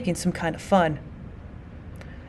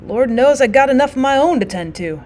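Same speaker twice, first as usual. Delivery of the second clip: hint of despair; 4 semitones higher than usual. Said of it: "little accent of despair".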